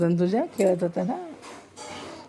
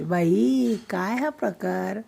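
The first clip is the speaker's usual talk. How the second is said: showing how to say it; 4 dB quieter, slower than usual. Shown as a demonstration. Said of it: "मी तशी नाही म्हणायची".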